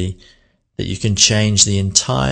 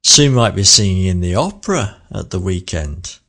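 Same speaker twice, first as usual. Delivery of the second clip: surprised wow. Shown as a demonstration. Teacher acting thrilled about Sue's opera news. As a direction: pitch leaps on "opera". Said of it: "That's kind of like, wow".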